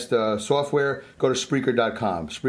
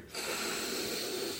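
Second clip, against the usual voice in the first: deep breath out; 14 dB quieter than usual. Real, not acted. Deep breath exhale exercise.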